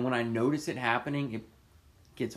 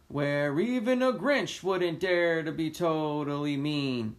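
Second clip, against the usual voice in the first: slow, higher, louder stage Grinch; 5 semitones higher, 4 dB louder, slower than usual. Retold or imitated. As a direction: ham up a musical-theatre Grinch. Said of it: "in my fucking Grinch costume".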